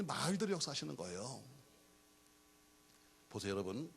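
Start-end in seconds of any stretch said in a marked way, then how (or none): none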